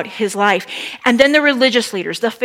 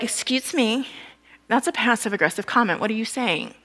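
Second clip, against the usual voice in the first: offended teachers; 2 semitones lower, 9 dB quieter than usual. Retold or imitated. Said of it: "the religious teachers are like".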